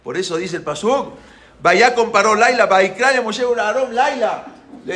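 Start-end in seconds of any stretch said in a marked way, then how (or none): 1.6-4.4 high, loud proclaimed verse; raised verse recital. A narrator's reading. Teller recites the verse to listeners, proclaimed.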